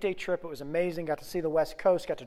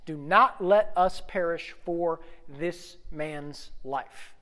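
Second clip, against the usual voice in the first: slow reading; much slower than usual. Shown as a demonstration. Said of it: "Do not let us perish for this man's life, okay?".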